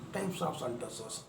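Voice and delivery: teacher repeating the term gently for students; soft echo. Shown as a demonstration. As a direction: echo the phrase softly to let it sink in. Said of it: "teacher repeats topic softly".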